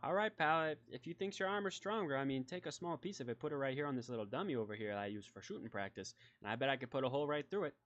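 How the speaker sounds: lightly voiced lawman laying down a dare; folksy sheriff, challenging. Sheriff daring a visitor to test his armor, lightly folksy.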